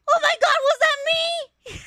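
stunned, can't believe it; shocked disbelief. Real, not acted. Shocked at hearing own voice.

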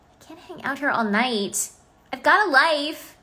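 lightly voiced Basha line, punchier at the end; Basha's voice. Shown as a demonstration. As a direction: toss it off as Basha, done with waiting. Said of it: "Can Basha say".

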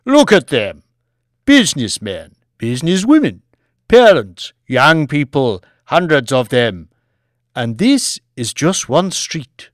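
loud, emphatic list and challenge; lecturing lord. Acted. Lord challenges Banks over the passers-by, loud lecturing voice. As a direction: challenge him, hitting each item.

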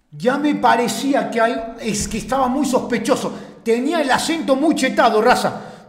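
loud, animated outburst; excited reaction. Real, not acted. Streamer telling his chat about the accent, loud and worked up. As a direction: blurt out your suspicion to chat.

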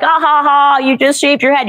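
hammed-up mocking hilarity; mock howling laughter. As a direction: imitate lads jeering through forced laughter. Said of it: "screaming and howling in laughter".

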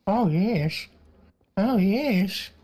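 gleeful. Real, not acted. Gleeful reply to "oh no.

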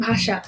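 ষ in ভাষা sounded as sh; palatal sh. Shown as a demonstration. Teacher shows how the letter sounds, ভাষা with sh. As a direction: say ভাষা as "bhasha". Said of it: "তালিবস্যর মতো হচ্ছে".

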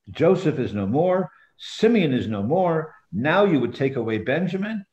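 measured read-aloud of a Bible story; scripture reading. A narrator's reading. Teacher reading Joseph's story to the group, scripture reading.

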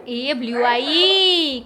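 loud, slow, stretched-out exclamation; excited announcing. Real, not acted. Showing a child the light changing colour, excited announcing. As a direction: draw out the last word in playful wonder.

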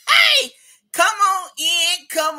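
laughing high holler; excited holler. Acted. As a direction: whoop in the crowd. Host greets crowd with laugh.

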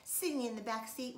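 ordinary delivery, nothing marked

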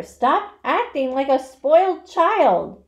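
slow, loud, high scolding; furious scream. A narrator's reading. Pig scolds lazy rat, furious scream. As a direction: scream each word in exasperation. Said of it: "screamed Wilbur".

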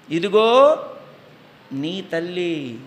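a loud call, then a slow, hushed finish; solemn proclamation. Acted. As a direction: announce it, then let it sink in. Jesus's words from the cross. (ప్రకటించి నెమ్మదిగా ముగించే మాట)

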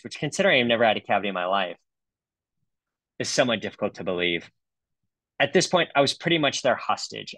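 lightly voiced aggrieved patient; mock-dramatic reading of a patient's complaint; impersonating the patient. Dentist finishes reading the bad review, lightly impersonating the patient. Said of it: "this is my impersonation of the patient".

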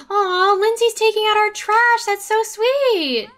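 high, loud, slow aww; drawn-out delighted aww; touched aww. Real, not acted. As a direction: coo at something sweet. Touched by Sim's chore.

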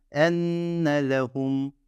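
"enne lehum" slowly, holding the nn; slow syllables. Shown as a demonstration. Teacher slowly reading "enne lehum" to learners. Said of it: "enne lehum şeklinde okuyorsunuz".

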